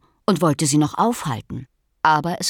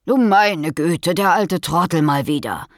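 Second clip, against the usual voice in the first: sighing. Acted. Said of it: "seufzte ein Hase".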